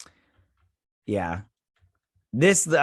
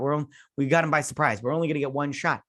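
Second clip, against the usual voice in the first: mocking parody; 3 semitones higher, faster than usual. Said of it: "Why does everybody always say that?".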